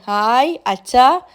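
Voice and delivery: slow, drawn-out happy hello to dad; a little girl lightly voiced, greeting her father with joy; a touch of a happy child. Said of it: "സന്തോഷത്തോടെ കെട്ടിപ്പിടിക്കുകയാണ്".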